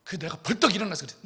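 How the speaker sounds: usual speaking voice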